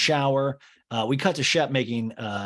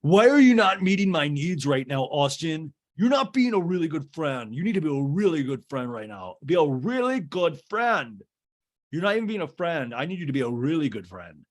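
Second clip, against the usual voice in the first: mock sensitive whine; 5 semitones higher than usual. Craig demanding Austin be a good friend, hammed-up whine. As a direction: overdo a needy, hurt friend. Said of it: "I love when men get, like, this is very sensitive".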